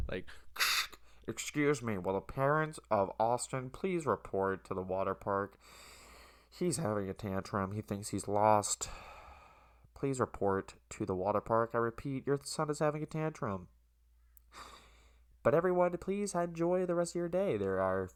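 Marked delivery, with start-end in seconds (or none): 1.3-13.7 mock intercom announcer. 15.4-17.6 high, bright-toned mock announcer sign-off; mock cheery announcer. Intercom announcement mocked.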